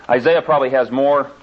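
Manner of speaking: ordinary talk, nothing marked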